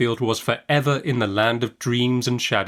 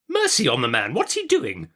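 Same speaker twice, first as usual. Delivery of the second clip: impatiently; 5 semitones higher than usual. A narrator's reading. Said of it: "cried my aunt impatiently".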